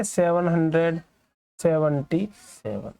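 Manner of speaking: "सेवन हंड्रेड सेवेंटी सेवन" as one number, slowing at the end; read as whole number. Shown as a demonstration. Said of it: "ऐसे नहीं पढ़ना आपको".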